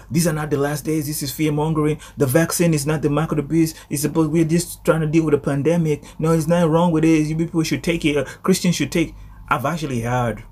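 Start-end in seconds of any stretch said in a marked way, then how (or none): 0.1-9.1 higher-pitched, insistent imitation of naysayers; adamant. Preacher imitating Christians who deny the end times, adamant. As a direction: insist firmly, brushing off every objection. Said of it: "some people are very adamant right now".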